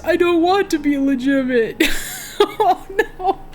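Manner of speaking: put-on wallow in it like a ruined drunk pirate; drunken captain lament.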